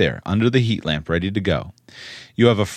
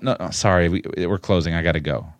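dismissive employee; 4 semitones lower than usual. Acted. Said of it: "which of those is the employee".

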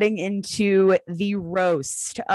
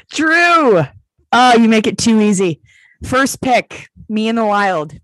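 loud, higher put-on British accent; 5 semitones higher, 9 dB louder than usual. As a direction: proclaim it in a hammed-up British voice. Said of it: "Should we do this one in a British accent?".

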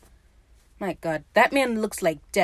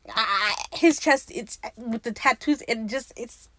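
flustered, lost for words; 3 semitones higher than usual. Real, not acted. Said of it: "I'm sorry, I can't speak".

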